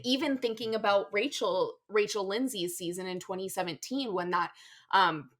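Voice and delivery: sleepy, slightly slurred words; tired slurring. Real, not acted. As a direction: talk drowsy, words a bit slurred. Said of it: "I got the covid vaccine earlier and I'm very tired now".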